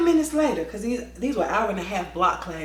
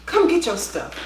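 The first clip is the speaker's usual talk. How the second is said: slightly raised call, tapering off; 4 semitones higher than usual. Retold or imitated. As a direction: call the words out the door. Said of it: "I yelled out".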